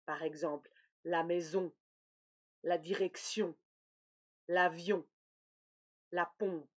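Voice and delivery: maison, direction, avion, pompe with nasal on; soft, careful nasal on in each word; nasal on examples. Shown as a demonstration. Teacher listing words with nasal on. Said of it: "O N ou O M".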